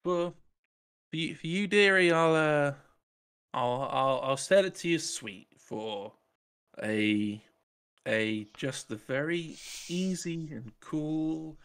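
high, slow wheedling shopkeeper; sly salesman. Acted. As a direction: coax a price out sweetly.

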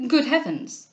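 startled cry, lightly acted; amazed. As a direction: exclaim in astonishment.

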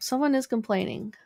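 breath whistling through the nose. Real, not acted. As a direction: air whistling in the nostrils. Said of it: "My nose is whistling".

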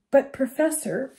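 short and curt. A narrator's reading. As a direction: cut him off short. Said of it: "she said shortly".

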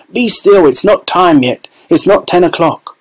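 a hint of a scolding dad; lightly voiced stern father. A narrator's reading. Fathers calming their eager children, firm.

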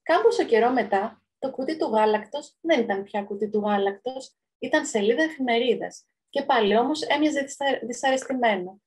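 measured read-aloud storyteller voice; story narration. A narrator's reading. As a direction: read the tale out to listeners. Reads a children's story aloud. (αφήγηση παραμυθιού)

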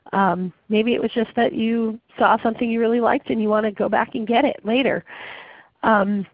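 muffled, sick-sounding voice; talking through a bad cold. Real, not acted. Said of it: "my, uh, very muffled voice today".

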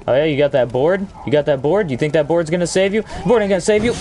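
gloating taunt. Acted. Taunting enemy while beating him.

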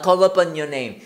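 "your" reduced to "yo" in "call upon your name"; slow demo of "call upon your name", words linked; linked pronunciation. Shown as a demonstration. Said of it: "yo도 yo로 발음납니다".

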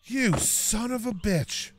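quietly seething curse at the damage; muttered curse. Real, not acted. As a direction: mutter it under your breath. Looking at his damaged door.

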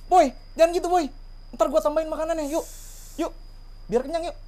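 high-pitched pleading coax; coaxing a dog. Real, not acted. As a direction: sweet-talk the dog in a high voice. Coaxing dog with promised food.

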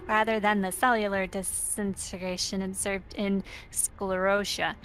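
hushed spooky lore reading. Acted. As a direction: read the lore like a ghost story. Reads game lore in spooky voice.

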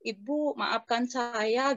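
slow, drawn-out retold apology; a hint of a sorrowful ghost, slowly; apologetic spirit. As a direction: lightly voice a pleading spirit, stretching the words. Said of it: "rohnya dia ngomong-ngomong sama saya".

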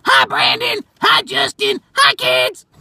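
high, sing-song hello; mimicking a kids' show greeting, high pitched; high mock greeting. Greeting voices of the kids' video.

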